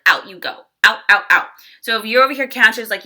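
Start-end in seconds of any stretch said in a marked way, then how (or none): 0.0-1.5 sharp, rising to a louder final out; cutting dismissal. Retold or imitated. Queen of Air throwing out what doesn't serve, sharply dismissive. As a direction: chop each out like a sword stroke. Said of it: "she cuts it like a sword".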